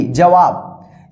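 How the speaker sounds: "जवाब" drawn out very slowly, syllable by syllable; slow demo. Shown as a demonstration. Teacher models the word for students, very slow and clear. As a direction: spell "जवाब" out slowly for beginners. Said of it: "यानी वी ए बी".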